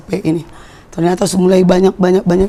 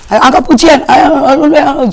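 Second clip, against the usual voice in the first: higher, louder call to sing; urging call; 7 semitones higher, 5 dB louder than usual. Retold or imitated. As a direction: rouse the congregation to lift praise. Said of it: "Ah, tapi".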